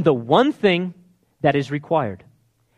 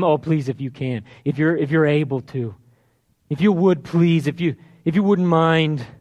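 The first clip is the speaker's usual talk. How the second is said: mildly acted, halting plea; begging. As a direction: plead in broken, repeated phrases. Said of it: "He's just begging him".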